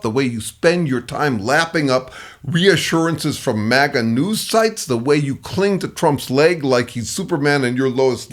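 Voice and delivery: needling, taunting jab. Shown as a demonstration. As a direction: taunt them with cool scorn. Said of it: "I can taunt with something like".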